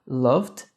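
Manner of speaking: "loved" ending in a D; final D sound. Shown as a demonstration. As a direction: say "loved" with a D straight after the V. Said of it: "com o D".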